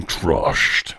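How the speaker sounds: movie-trailer whisper. Retold or imitated. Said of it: "like Mister Sound Man".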